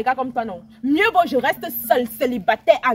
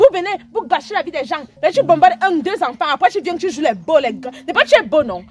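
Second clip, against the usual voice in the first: louder, pointed accusing tirade; heated scolding; 5 dB louder than usual. Acted. Woman scolding her friend's boyfriend, heated and accusing. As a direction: tell him off with rising force.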